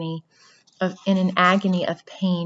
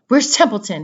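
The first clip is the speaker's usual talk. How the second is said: demanding; 3 semitones higher, 6 dB louder than usual. Acted. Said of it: "he demanded".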